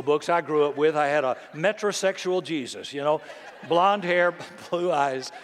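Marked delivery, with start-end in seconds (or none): 3.7-5.3 chuckling through the list; laughing. Real, not acted. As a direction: laugh it out, amused. Laughing at a blonde Jesus image.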